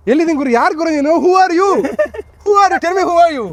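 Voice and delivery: high excited disbelief; amazed asking. Real, not acted. Mock-awed at friend's collection.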